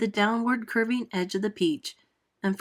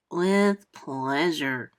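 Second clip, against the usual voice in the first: slow pleased drawl with a grin; grinning centipede; 4 semitones lower, much slower than usual. Acted. Centipede grinning at Miss Spider's request, very slow and pleased. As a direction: savour the words, grinning. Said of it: "the centipede answered, grinning".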